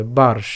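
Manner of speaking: বার্ষ with r sounded after the long "ba"; reph pronunciation. Shown as a demonstration. Teacher shows the reph to learners, বার্ষ as "baar-sh". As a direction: say বার্ষ as "baarsh", r before the sh. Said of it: "তাহলে উচ্চারণটা হবে এভাবে".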